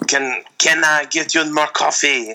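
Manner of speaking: put-on waiter in hokey French-accented English; mild put-on French accent, politely offering; bad French accent. Waiter offering coffee in the diner, bad French accent. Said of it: "worst accent part of the movie".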